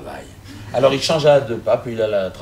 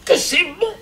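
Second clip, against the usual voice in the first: high, loud cry of wonder; awestruck cry; 6 dB louder than usual. Acted. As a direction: lose yourself in wonder, loudly. Pope marvelling, rising to a cry.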